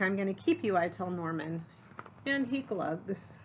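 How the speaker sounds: lively, expressive picture-book narration; story read-aloud. A narrator's reading. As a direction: read it to children, punching key words.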